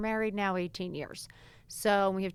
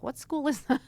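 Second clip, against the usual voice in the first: laughing disbelief; 6 semitones higher, 3 dB louder than usual. Retold or imitated.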